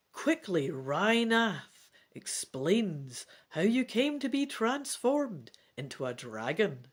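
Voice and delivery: steady read-aloud storytelling; narrating a dragon adventure to the family; story narration. A narrator's reading. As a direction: read it like a bedtime adventure book. Narration passage.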